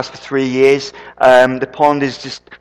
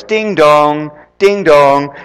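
doorbell imitation; 3 dB louder, much slower than usual. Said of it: "The doorbell goes".

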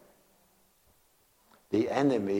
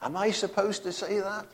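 shocked thought; 8 semitones higher, 5 dB quieter than usual. Retold or imitated. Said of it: "I thought".

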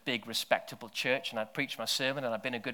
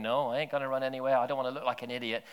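rushed inner protest; faster than usual. Retold or imitated. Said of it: "my brain was going".

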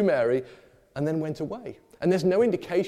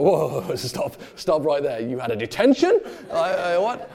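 louder startled stop breaking into a laugh; shocked parent; 5 dB louder than usual. Retold or imitated. Parent hearing about the detention, laughing astonishment. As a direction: catch the hidden bad news, laughing in disbelief. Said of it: "And you go".

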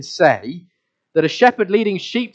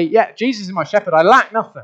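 glib lip service; 4 semitones higher, 5 dB louder than usual. Retold or imitated. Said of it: "with our lips we say".

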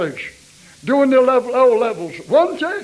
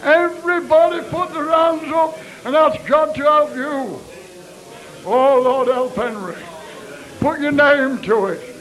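fervent altar call. Acted. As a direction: push the congregation to raise their hands. Altar call at full force.

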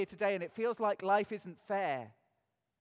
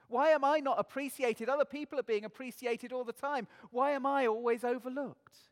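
louder complaint; 5 semitones higher, 6 dB louder than usual. Pretend. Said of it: "the complaint can go on".

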